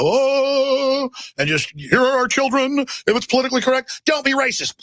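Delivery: mock submissive voice. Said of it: "everyone would just kneel and go".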